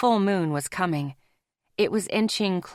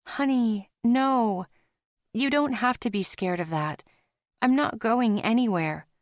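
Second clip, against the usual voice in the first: lightly higher female voice, gentle and sure; Zoe, mate, reassuring; 4 semitones higher than usual. Acted. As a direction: comfort him, a touch lifted.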